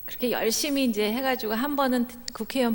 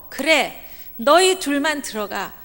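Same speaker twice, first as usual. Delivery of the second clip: voice of God; 4 semitones higher, 7 dB louder, slower than usual. Retold or imitated. God answering the two.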